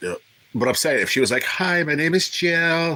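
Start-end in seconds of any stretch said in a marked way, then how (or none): 1.4-3.0 nice womanly voice, high, sweet, very slow and drawn out. Imagining a nurse before an endoscopy, imitating a nice womanly voice. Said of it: "like in a nice, you know, womanly voice".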